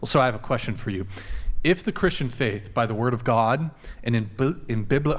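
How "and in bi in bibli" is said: stumbling over the start of "bibli-"; tongue-tied. Real, not acted. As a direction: trip on the word and restart it. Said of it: "it's just tongue-tied".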